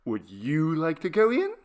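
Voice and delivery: lightly voiced child, politely offering; a hint of a small child, asking nicely. A narrator's reading. The child politely invites Trent inside, lightly voiced child. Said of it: "inquired the child politely".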